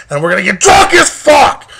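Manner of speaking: rowdy hyped yell; excited shout. Real, not acted. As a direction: shout it like a party cheer. Hyped camping plans.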